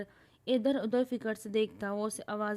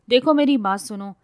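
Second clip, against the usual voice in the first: patiently; 3 semitones higher, 11 dB louder than usual. Acted. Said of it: "زنفر تحمل سے بولا".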